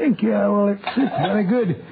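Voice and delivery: a light, put-on Scottish burr; Scottish accent, a slightly overdone act. Watson in disguise fooling the schoolmaster, light Scottish accent. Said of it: "your Scottish accent is beginning to disappear".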